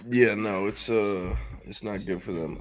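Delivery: echoey, like in a cave. Real, not acted. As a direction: talk with room echo. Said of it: "I sound like I'm in a cave".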